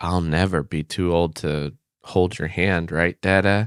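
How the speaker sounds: put-on whisper in a child's voice. Retelling what a child whispered during a restaurant story: imitating a child whispering. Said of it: "comes in and whispers to me".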